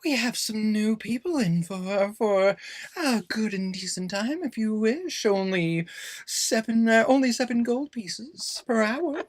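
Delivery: high, slow put-on tout voice; sleazy street tout. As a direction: lure passersby with a smarmy pitch. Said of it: "you hear some people going".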